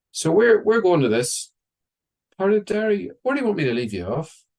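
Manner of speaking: high friendly grandfather. Retold or imitated. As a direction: lift it up, hearty and helpful. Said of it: "my grandfather said to him".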